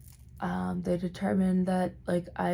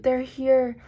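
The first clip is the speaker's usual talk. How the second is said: panicked cry; 6 semitones higher, 3 dB louder than usual. Retold or imitated. Panicked hallucination retold again.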